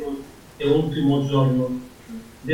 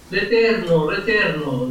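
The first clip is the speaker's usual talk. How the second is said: raised-pitch scriptural cry; proclaimed cry; 5 semitones higher than usual. Acted. Preacher reads God's cry before Moses, proclaimed. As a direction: call out the holy name, higher at first. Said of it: "e gridò".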